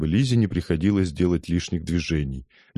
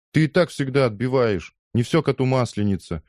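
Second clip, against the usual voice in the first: firm declaration; 6 semitones higher than usual. Acted. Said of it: "заявил капитан".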